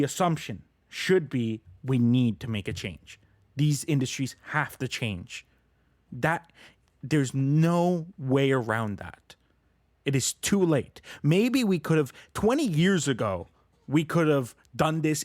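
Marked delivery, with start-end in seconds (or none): 6.1-15.2 urgent, emphatic insistence; worked up. Real, not acted. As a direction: drive it home, getting carried away. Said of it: "I got really worked up there".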